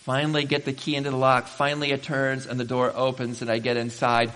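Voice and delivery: normal talking voice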